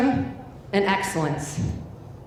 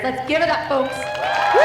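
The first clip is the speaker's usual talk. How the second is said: hype call; 3 semitones higher than usual. Real, not acted. Hyping crowd to cheer.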